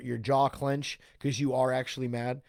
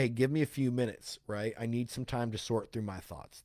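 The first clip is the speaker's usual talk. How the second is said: calm, understated request for time; 2 semitones lower, 6 dB quieter than usual. Acted. Coach models answering instead of reacting in anger, calmly. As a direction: ask for a few minutes without any edge. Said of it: "we just calmly say".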